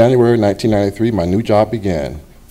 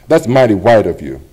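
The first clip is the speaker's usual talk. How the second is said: snapped remark; 6 dB louder than usual. Retold or imitated. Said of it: "she snapped".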